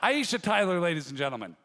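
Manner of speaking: projected guest send-off to applause; show host announcer. Real, not acted.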